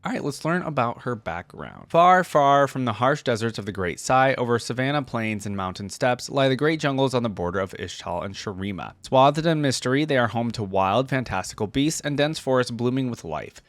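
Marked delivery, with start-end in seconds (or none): 1.9-13.6 lore read in a lightly dramatic storyteller voice; story narration. A narrator's reading. Reading Nidalee's lore to viewers, gentle story narration. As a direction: read it like the opening of a legend, unhurried. Reads champion biography aloud.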